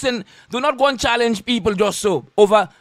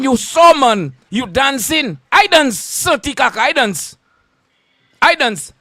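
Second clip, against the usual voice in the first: loud taunt; 3 semitones higher, 4 dB louder, slower than usual. Real, not acted. Taunting the critic Santi Kaka, loud and slow. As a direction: drag out I dance, jeering at him. Mocking critic about dancing.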